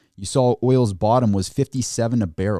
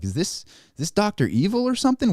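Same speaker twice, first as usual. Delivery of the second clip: incredulous jab; 10 semitones higher than usual. Retold or imitated. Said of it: "I'm like".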